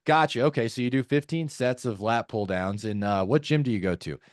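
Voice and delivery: rote repeat-back, then the next question; weird interrogating tone. Shown as a demonstration. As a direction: parrot the answer like ticking boxes. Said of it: "Just sounds fucking weird".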